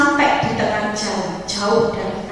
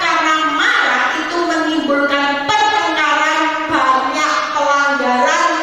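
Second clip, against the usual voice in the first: raised, measured preacher's cadence; preached divine admonition; 5 semitones higher than usual. Retold or imitated. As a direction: lightly voice God's instruction in a higher pitch. Preacher voices God's admonition. (menirukan teguran Tuhan dengan nada khotbah)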